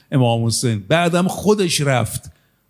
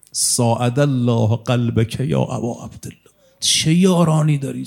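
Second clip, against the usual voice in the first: mournful lament. Real, not acted. Lament addressed to the Imam.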